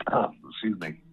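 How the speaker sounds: coughing, voice catching mid-sentence; apologizing while clearing a choked throat; choking on a drink. Real, not acted. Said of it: "Sorry, I'm choking there".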